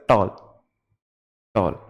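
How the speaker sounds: टॉल said in a single breath; said in one go. Shown as a demonstration. To the class, teacher models the word in one go. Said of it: "एक बार में आपने बोल दिया बिना बीच में सांस लिए".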